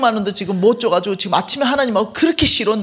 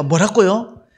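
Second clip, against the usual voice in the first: louder startled question with a rise; surprised; 5 dB louder, slower than usual. Retold or imitated. The vice-president hearing the request, startled. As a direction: ask back in disbelief. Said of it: "우리 부대표 놀래가".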